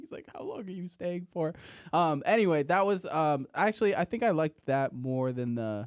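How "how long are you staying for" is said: acted bawling, sobbing, crying through the words. Retelling a scene where Jerry is bawling his eyes out: imitating Jerry crying. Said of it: "He's, like, crying. He's like".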